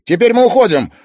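loud firm command; angry command. Acted. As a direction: announce it with anger. Timofey angry.

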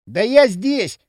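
cheerful loud call; joyful. A narrator's reading. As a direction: call out gladly. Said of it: "радостно отозвался Выползухин". (радостно)

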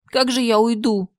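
sniffling. Acted. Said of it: "открыто шмыгая носом".

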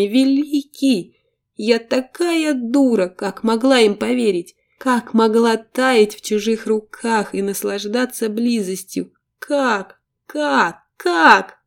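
rising to a broken cry; crying despair. Acted. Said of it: "Захлёбывалась слезами и рыданиями".

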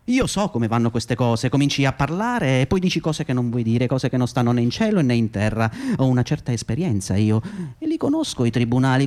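self-justifying boss talking himself up; smug intermediary. Acted. Cooperative boss justifying himself to the audience, smug and defensive. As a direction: defend yourself with oily confidence.

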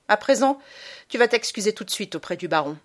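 a hint of a cold, scolding mother; stern mother. Mother punishing her son, cold and stern. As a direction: scold the boy firmly.

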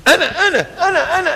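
put-on high, eager child begging to be picked; eager schoolkid. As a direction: squeak like a kid desperate to answer. Eager schoolchild raising hand.

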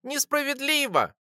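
high squeaky creature voice; the little creature parrots its master's protest; squeaky echo. Acted. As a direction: squeak it back like a tiny pet. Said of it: "пропищала на моём плече Лора".

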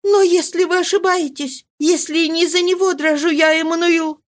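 frightened wife begging her husband; Marie, pleading. A narrator's reading. Marie's voice in the reading.

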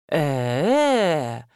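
low, drawn-out mumble of confusion; low mumbled hesitation. A narrator's reading. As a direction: mumble it low, lost for words. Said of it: "пробормотал парень".

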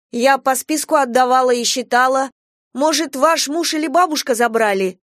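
put-on a young teacher defending herself; lightly voiced young trainee. A narrator's reading. Trainee explaining to the mother. (молоденькая воспитательница объясняет матери)

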